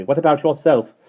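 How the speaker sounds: tart retort. A narrator's reading. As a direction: fire it back at the bird. Mary Poppins retorting.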